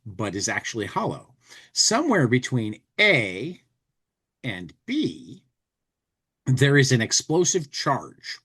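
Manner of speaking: deadpan novelty ad read; reading ad copy aloud. Acted. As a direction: read the gag ad like a straight product blurb. Reads the insert copy aloud.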